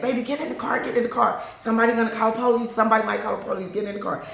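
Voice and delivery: hurried mock urging, pitch up; urgent guy. Guy urging girlfriend into car, urgent. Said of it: "I hear some guy saying".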